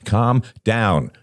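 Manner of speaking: stern reprimand. A narrator's reading. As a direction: order him firmly to settle. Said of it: "said Robert sternly".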